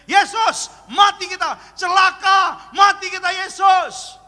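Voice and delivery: high, loud cries of terror; panicked shouting. Retold or imitated. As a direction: yell for help like sinking disciples. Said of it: "Mereka teriak-teriak". (teriakan panik ketakutan)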